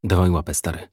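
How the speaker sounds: understated hesitancy; hesitant. A narrator's reading. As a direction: say it unsurely, letting the last word fade. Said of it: "powiedział niepewnie".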